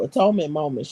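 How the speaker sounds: Atonement moments read out deliberately, each word drawn out; read slowly. Shown as a demonstration. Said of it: "let me read that slow".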